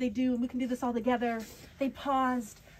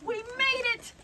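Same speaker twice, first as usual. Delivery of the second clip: high excited exclaim; 11 semitones higher than usual. A narrator's reading. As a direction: burst out with relief. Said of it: "Ava exclaimed".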